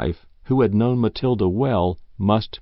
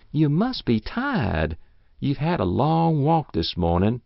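put-on coaxing old woman; 5 semitones higher than usual. She coaxes him to stay.

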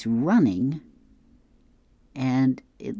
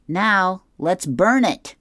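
Curtis voice; 8 semitones higher, 7 dB louder, slower than usual. Acted. Curtis answers Chutney.

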